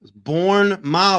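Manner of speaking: "Bournemouth" with a full "mouf" ending; own-accent pronunciation. Shown as a demonstration. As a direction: insist on born-MOUF for Bournemouth. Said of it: "that's the accent".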